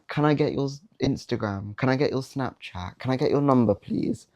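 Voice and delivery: mock-timid, pleading ask for her Instagram, pitch rising; cringy needy ask. Nervous guy begging a girl for her number, timid mock plea. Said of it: "cringy and sad and pussy that sounds".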